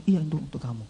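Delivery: soft, tender giving voice; gentle reassurance. Retold or imitated. Pastor handing God's gift to young man, gentle and soft. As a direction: tell him softly, almost hushed.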